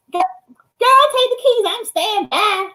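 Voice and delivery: high-pitched mock brush-off; imitating carefree friend. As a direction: pitch it way up, stretching the final goodbye. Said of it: "She goes".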